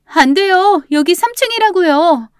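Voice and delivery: high, loud alarmed shout; startled shout. Acted. Roommate stopping grandmother at the window, startled shout. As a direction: cry out in panic to stop her. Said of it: "보고 놀라 소리쳤습니다".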